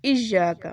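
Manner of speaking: ایاک with hamza jolt and doubled y; firm iyyak. Shown as a demonstration. Teacher demonstrating firm ایاک. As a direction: hit ایاک sharply. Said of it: "سختی سے پڑھیں گے".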